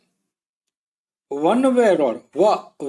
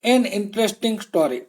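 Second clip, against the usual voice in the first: slow model phrase; 2 semitones higher, much slower than usual. Shown as a demonstration. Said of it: "ઇન્ટરેસ્ટિંગ સ્ટોરી".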